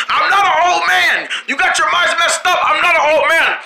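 indignant shout. Acted. Indignant denial, laughing.

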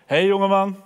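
lightly voiced king, hailing a young man; teacher playing the king for the class. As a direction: greet him as a friendly king. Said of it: "Ik ga even de koning spelen".

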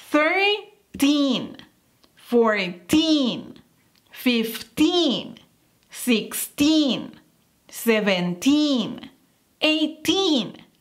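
put-on "teen" stretched and firm at the end of each word; stress on teen. Shown as a demonstration. Teacher drilling numbers, stressing teen. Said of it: "enfatizar esta terminación".

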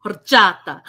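punchy, hammed-up Spanish accent; playful attempt at a Spanish accent; mock Spanish accent. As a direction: put on a Spanish accent, briskly loud. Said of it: "You always have that good Spanish accent".

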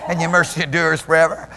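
building spoken prayer; demonstrating how to pray. Shown as a demonstration. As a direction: lead into prayer with rising fervor. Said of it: "I can start getting into some prayer".

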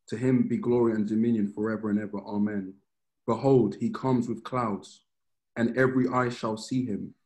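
measured Bible reading voice; solemn reading of scripture. Acted. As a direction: read it out like holy text. Reads Revelation aloud.

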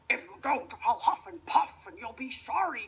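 wolf voice. Acted. Wolf threatens.

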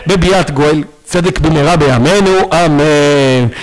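prayerful closing blessing. Acted. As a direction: bless the congregation in earnest.

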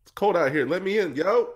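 high-pitched, hammed-up Black American voice for a dog; mock Black American accent. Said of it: "and it's pretty bad".

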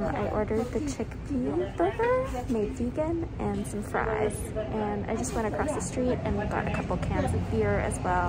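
muffled behind fabric mask; speaking with face covered; through a cloth mask. Real, not acted. Seen 0: Floral cloth mask covers her mouth and nose throughout speech.

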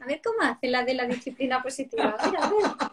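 teasing, laughing, mocking the positive-discipline mom. Other park mothers mocking the positive-discipline mom, laughing. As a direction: gossip with a laugh, watching her fail. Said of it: "empiezan las otras mamás".

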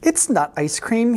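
high, squeaky protest; small high voice; squeaked. A narrator's reading. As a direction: squeak it out like an embarrassed cat. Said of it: "he squeaked".

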